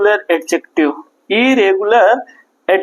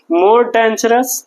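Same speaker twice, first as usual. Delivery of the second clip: "more dangerous" stretched out very slowly, each word held; slow dictation; much slower than usual. Shown as a demonstration. Teacher repeating for students, very slow and deliberate. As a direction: say it slowly so they can write it.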